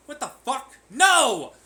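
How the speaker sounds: high, loud mock scream of outrage; mock outraged shriek. Mocking an outraged person, high loud shriek. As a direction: shriek like a tantrum.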